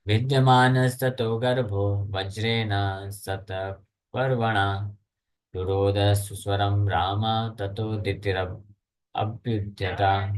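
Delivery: slow, measured scripture chant; Sanskrit verse recitation. Acted. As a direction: recite the shloka with drawn-out syllables.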